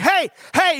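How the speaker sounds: high-pitched mock yell at an animal; imitated screaming. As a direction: imitate the guide hollering to scare off an elephant. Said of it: "stomping and screaming. He's like".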